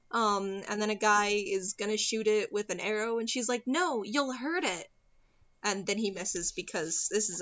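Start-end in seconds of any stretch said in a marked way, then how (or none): 3.7-4.9 slow, drawn-out mock plea; mock worried plea. Retelling her protecting the unicorn from an arrow, mock worried plea. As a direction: plead slowly in imitation of a worried girl.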